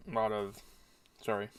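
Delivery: talking around something in the mouth; words blocked by something in the mouth; mouth full. Real, not acted. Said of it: "The fuck is in my mouth?".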